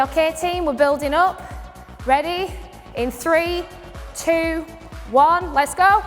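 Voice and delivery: energetic countdown to the team; spin instructor call. Shown as a demonstration. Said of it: "And I say".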